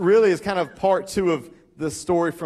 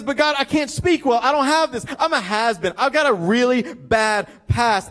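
higher-pitched, insistent pleading; protesting excuses; 5 semitones higher than usual. Retold or imitated. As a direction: plead your shortcomings, pitched up. Voices Moses making excuses to God.

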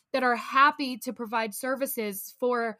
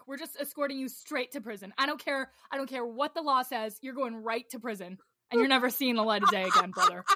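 imagined furious judge; faster than usual. Pretend. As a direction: play an outraged judge scolding the landlord. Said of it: "If I were the judge, I'd be like".

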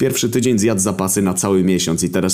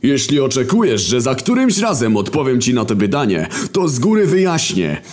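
high, half-sung grumbling voice of Wojna; a high sing-song rant from a weary warrior; Wojna's voice; 9 semitones higher than usual. Acted. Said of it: "odpowiedział spokojnie Wojna". (wysoki, śpiewny głos Wojny)

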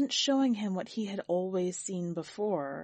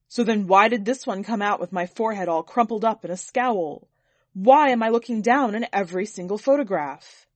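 louder, aggrieved protest; indignant complaint; 7 dB louder than usual. Acted. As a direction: demand an answer, offended. Sir complains about his photos.

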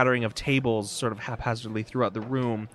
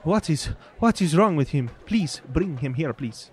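alarmed oddities merchant; 5 semitones higher than usual. Acted. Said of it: "he was like".

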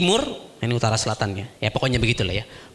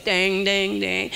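mock music; much slower than usual. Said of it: "ada musiknya".

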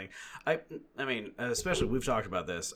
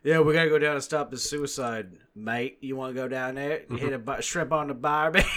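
mocking Mel Gibson slipping into an Australian accent, louder; hammed-up Australian accent, a bit higher; Mel Gibson's Australian accent; 4 semitones higher, 6 dB louder than usual. Mocking Mel Gibson on a podcast, in a hammed-up Australian accent. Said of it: "like, the Australian accent".

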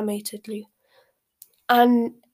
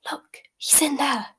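slow, higher-pitched whispery breath; 5 semitones higher, slower than usual. A narrator's reading. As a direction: breathe it slowly into a friend's ear. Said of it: "she breathed in Harry's ear".

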